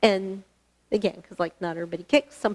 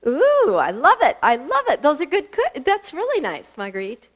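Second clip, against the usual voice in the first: excited praise; 6 semitones higher, 3 dB louder than usual. Real, not acted. Praising students doing kicks.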